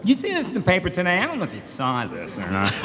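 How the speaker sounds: quick, chatty Leno bit; a hint of Jay Leno; Leno impression. Imitating Jay Leno opening a bit. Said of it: "Tourette out all that stuff".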